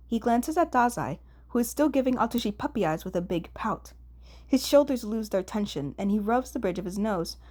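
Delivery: ordinary delivery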